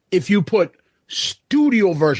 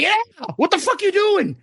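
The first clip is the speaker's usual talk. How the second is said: startled; 10 semitones higher than usual. Retold or imitated. Retold reaction to girlfriend.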